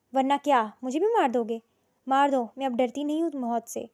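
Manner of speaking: loud defiant challenge; fearless defiance. Acted. Fatima defying his threat, loud and fearless. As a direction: dare him to kill her. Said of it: "وہ نڈر انداز میں بولی".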